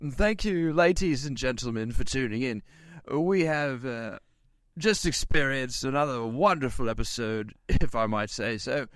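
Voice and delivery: put-on British accent, announcer sign-off. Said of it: "in your British announcer voice".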